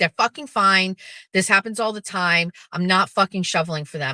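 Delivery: dismissive, irritated, snapping, snappish delivery. Retelling how Jeff snapped about shoveling for the dogs: imitating Jeff snapping. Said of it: "snapped at me and he was just like".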